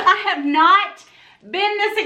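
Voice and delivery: giggling through the words; laughing. Real, not acted. Happy vlogger laughing to viewers. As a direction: laugh as you start.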